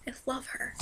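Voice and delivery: hushed, whispered aside; adoring whisper. Real, not acted. Fan gushing about a favorite chef, adoring whisper. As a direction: drop to a reverent whisper.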